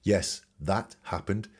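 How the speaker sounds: slow, cold and factual "Yes, that happened"; mild cold recital. Retold or imitated. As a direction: say it flat and detached, no feeling. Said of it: "Very cold and very factual".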